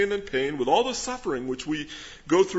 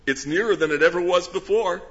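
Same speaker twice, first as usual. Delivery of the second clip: laughing; 7 semitones higher, 4 dB louder than usual. Real, not acted. Laughing at his own remark.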